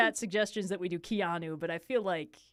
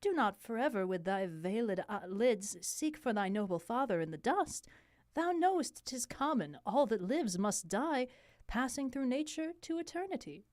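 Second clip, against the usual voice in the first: consoling queen; 2 semitones higher, 5 dB quieter than usual. Acted. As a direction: plead gently in a lifted voice. Plays Hamlet's mother consoling him.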